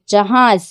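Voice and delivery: जहाज said ja-haaz, j and h apart; plain j-h. Shown as a demonstration. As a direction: sound जहाज in two beats, ja then haaz. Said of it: "अपन normally pronounce कर सक रहे".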